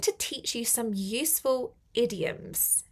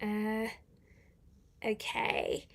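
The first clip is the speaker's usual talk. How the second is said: whisper; 7 dB quieter, much slower than usual. Real, not acted. Reading comments quietly.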